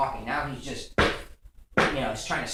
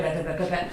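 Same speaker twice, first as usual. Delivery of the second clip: rapid higher-pitched pattering; quick, repeated patter noise; imitated footsteps; 5 semitones higher, 4 dB louder than usual. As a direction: mimic a toddler's running feet. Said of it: "you hear footsteps".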